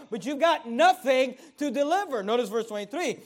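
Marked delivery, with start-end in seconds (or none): 0.1-2.2 firm rebuke. Acted. Joab rebukes Ahimaaz.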